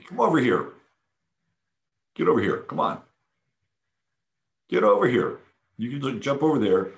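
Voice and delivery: high sing-song calling to a pet; high coaxing pet voice; high cooing call to the cat. Retold or imitated. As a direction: coax the cat over in a high voice. Calling cat to come over.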